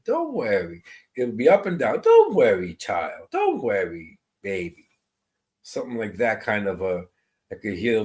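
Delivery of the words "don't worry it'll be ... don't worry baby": lyrical calming grandma. Retold or imitated. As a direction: croon reassurance like a grandmother. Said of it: "lyrical way of calming you".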